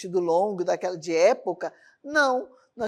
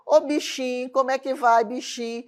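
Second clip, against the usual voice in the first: playful demo of a Nordeste accent; Northeastern Brazilian accent. Shown as a demonstration. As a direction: imitate a Northeastern Brazilian greeting. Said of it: "tem alguma coisa lá do Nordeste".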